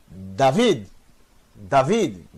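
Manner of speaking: "David" said twice as da-VID, the accent falling clearly on VID; stressed syllable shown. Shown as a demonstration. Teacher pointing out the tonic syllable, stress demonstrated. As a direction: repeat "David" evenly with a marked stressed syllable. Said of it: "essa será a tônica".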